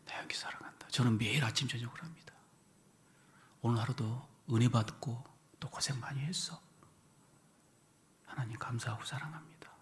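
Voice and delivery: hushed, whispered to the mirror; private whisper. Shown as a demonstration. Alone at the bathroom mirror, whispered affirmation. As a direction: murmur it privately so no one hears. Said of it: "거울 보면서 화장실에서".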